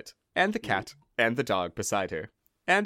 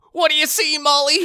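squeaky woman voice; shrill curious wife; high-pitched wife voice; 8 dB louder than usual. Acted.

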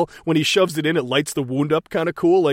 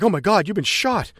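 higher-pitched mock panic; imitated freak-out; 5 semitones higher than usual. Reporter finding him shot, mildly imitated panic. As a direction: play a mild, pitched-up freak-out. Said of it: "as she's freaking out".

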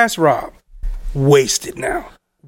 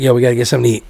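put-on low, mumbled drunk friend; wasted drunk; 9 semitones lower, much faster than usual. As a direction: imitate a drunk buddy down low. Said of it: "Rob wasted".

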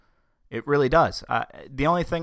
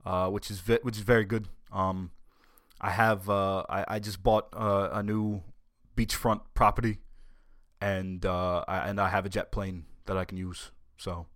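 lightly voiced senator, halting and subdued; Bernie; 2 semitones lower than usual. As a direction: give a hesitant personal update in a light politician impression. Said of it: "how you doing, Bernie?".

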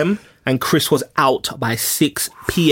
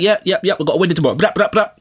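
mock an over-hyped hanger-on, higher on the ad-libs; lightly imitated hype man with brrap bursts; annoying Canadian guy; 3 semitones higher, faster than usual. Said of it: "That's how he was talking".

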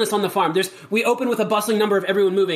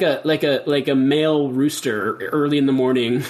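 rooster impression; 3 semitones lower than usual. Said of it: "That's my rooster impression".

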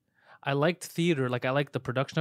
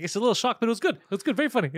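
husband's polite verdict; 7 semitones higher, faster than usual. Retold or imitated. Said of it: "it's like".

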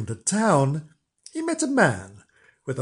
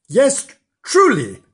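higher and louder, eager agreement; cried out; 8 semitones higher, 6 dB louder than usual. A narrator's reading. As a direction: call it out with pride. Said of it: "cried the man".

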